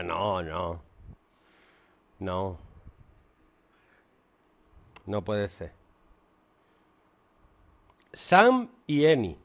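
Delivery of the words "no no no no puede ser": retold disbelief. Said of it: "y yo".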